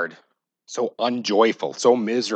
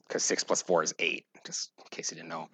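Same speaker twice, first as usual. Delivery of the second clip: whispered joke; 4 semitones lower, 9 dB quieter than usual. Real, not acted. Joke aside.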